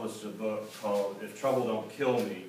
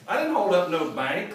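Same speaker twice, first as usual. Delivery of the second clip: put-on country boy protest; 6 semitones higher, 6 dB louder than usual. A narrator's reading. Clayton protests.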